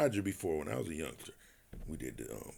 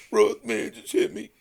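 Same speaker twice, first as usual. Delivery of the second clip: much higher, louder whine; mocking whiny Floyd; 11 semitones higher, 6 dB louder than usual. Mocking how Floyd begged Ross on the phone, high whine. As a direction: ham up a crybaby plea. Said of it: "that's how you talk".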